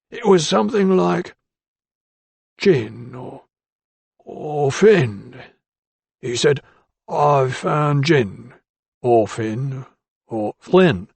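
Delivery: lightly voiced timid tradesman, a touch slow; a hint of a nervous shopkeeper pleading his case; timid ironmonger. A narrator's reading.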